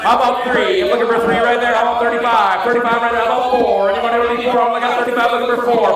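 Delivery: rapid-fire auction calling; auctioneer patter. Acted. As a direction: keep the bids rolling like an auctioneer. Runs the charity auction.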